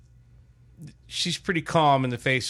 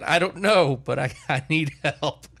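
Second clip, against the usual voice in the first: imitated flustered plea, higher at the start; flustered wife; 4 semitones higher, 3 dB louder than usual. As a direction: lightly act out a wife at a loss. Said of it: "we go back and forth like this".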